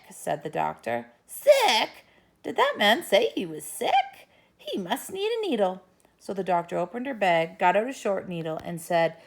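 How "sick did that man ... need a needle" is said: loud, high eager Sick; eager pounce. Acted. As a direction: seize the chance to give a needle. Doctor eager.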